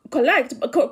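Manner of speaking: "correct" slipping into a Kikuyu accent, the k-r run together; Kikuyu-accented "correct" that needs fixing. Real, not acted. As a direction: let "correct" come out in your Kikuyu accent. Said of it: "that's my Kikuyu accent coming out".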